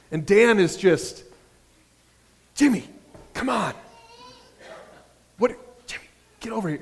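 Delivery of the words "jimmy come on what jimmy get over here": higher-pitched impatient call across the street. Retold or imitated. Dan calls Jimmy away from the homeless man, impatient. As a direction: hurry him along, fed up.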